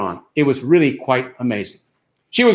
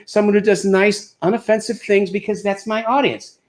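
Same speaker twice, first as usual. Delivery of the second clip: lightly voiced lady star, pitched up; a hint of a prim employer; Ginger Rogers; 5 semitones higher than usual. Star telling a comedian to keep it clean, lightly higher voice. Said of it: "she said".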